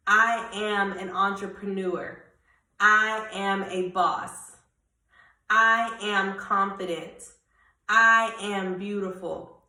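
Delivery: firm, declared affirmations, stressing "I"; bold proclamation. Shown as a demonstration. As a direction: proclaim each one with conviction. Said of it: "Start to proclaim those things".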